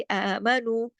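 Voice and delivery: आमनु with light letters and long आ; light teaching recitation of आमनु; thin, lengthened. Shown as a demonstration. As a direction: stretch आमनु without thickening it. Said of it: "सब बारीक पढ़े जाएंगे".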